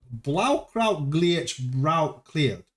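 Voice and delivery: slow, syllable by syllable German try; slow careful attempt. Shown as a demonstration. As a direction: sound out each word slowly. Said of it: "I need to hear it".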